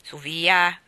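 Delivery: loud, brisk "Su via"; father's voice. A narrator's reading. Father interrupts his wife's worry, loud and brisk. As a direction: cut in to wave off the worry. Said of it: "intervenne il padre".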